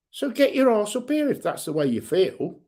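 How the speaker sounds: heated, rising rant at online trolls; furious and defiant, calling them out; angry rant. Real, not acted. Vlogger ranting at anonymous trolls, angry. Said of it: "That's me rant over".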